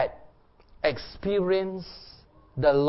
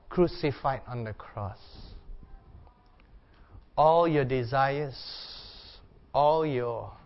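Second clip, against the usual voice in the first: guided meditation. Acted. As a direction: gently settle the room into prayer. Guided prayer over the music.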